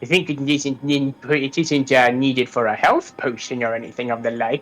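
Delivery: lightly voiced sweet witch. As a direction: coax like a fussing old witch. Witch offers a potion.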